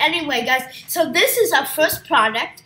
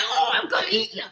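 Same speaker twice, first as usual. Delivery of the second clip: monster toy voice; 4 semitones lower, faster than usual. Pretend. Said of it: "Then goes up and says".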